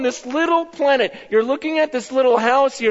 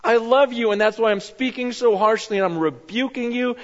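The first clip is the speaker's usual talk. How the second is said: loving God. Retold or imitated. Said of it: "He goes".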